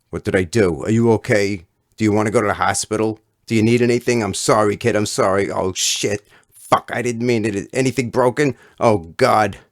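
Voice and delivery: loud, high, fussing apology; frantic worry. Acted. Fat kid fussing over the boy he knocked down, frantic worry. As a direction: fuss like a frantic mother.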